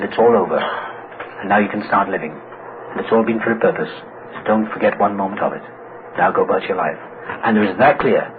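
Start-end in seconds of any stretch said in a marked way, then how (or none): 0.0-7.0 lower, measured voice of revelation; lightly voiced solemn voice from deep within; big inner voice. Big voice deep inside him releasing him to live, low and steady. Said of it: "a big voice deep inside me said".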